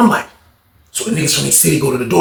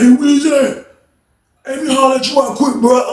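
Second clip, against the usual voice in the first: higher, pressing hail; urgent call over; 10 semitones higher than usual. Retold or imitated. Mel calling the friend over.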